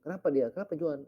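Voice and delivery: a congregant asking in alarm; worried churchgoer. Retold or imitated. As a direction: ask in a fluster what happened.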